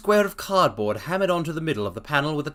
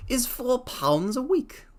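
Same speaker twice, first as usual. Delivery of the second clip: higher, slow character voice; a different, slower man answering; Duncan Ross voice; 10 semitones higher, slower than usual. Acted. Ross names the wage in a higher, slower voice.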